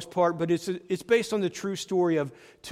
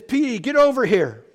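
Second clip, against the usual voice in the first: loud, high furious coach's yell, slowing to a hard finish; hammed-up shouting coach chewing out his running back; angry yell; 7 semitones higher, 7 dB louder than usual. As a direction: bark at the player like a furious coach. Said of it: "he yells at Petey".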